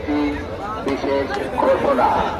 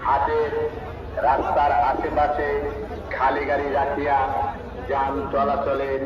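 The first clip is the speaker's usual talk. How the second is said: echoing festival loudspeaker. Real, not acted. Market PA special announcement.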